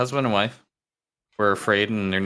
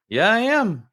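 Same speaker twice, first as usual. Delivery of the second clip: parrot voice; 12 semitones higher, 4 dB louder than usual. Acted. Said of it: "And the bird says".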